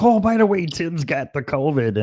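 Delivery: a light dig at the weather host; imitating Scarlett. The host announcing it on air, light imitation. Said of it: "she's like".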